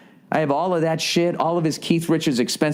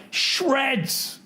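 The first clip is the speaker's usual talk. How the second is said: high, breathy-sounding emphatic "Shreds"; awed; 13 semitones higher, 3 dB quieter than usual. Real, not acted. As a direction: say it in disbelief at his skill. Awe at guitarist's skill.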